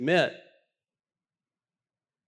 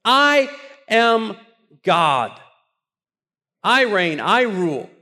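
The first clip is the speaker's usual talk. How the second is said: proclaiming God; 4 semitones higher, 5 dB louder than usual. Retold or imitated. God's voice, preacher building.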